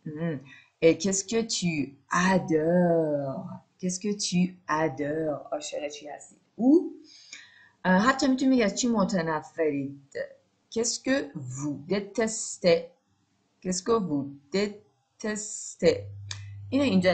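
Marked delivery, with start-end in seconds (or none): 0.8-5.5 slow, drawn out question; slow drill. Shown as a demonstration. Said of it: "teacher drills question slowly". 10.7-16.0 slow, drawn out question; slow drill. Shown as a demonstration. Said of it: "teacher drills question slowly".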